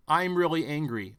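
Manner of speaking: loud, emphatic reading of a script line; hammed-up news-script anger; mock scripted anger. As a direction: punch it like a cue card. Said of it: "here's your script cue".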